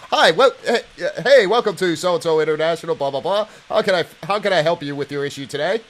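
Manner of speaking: loud, lively mock greeting; call-centre agent. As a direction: put on a hammed-up customer service welcome.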